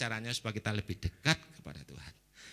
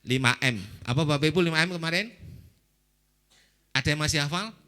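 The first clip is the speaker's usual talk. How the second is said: calling out to congregation; 3 semitones higher, 6 dB louder than usual. Real, not acted. Preacher quizzing the congregation.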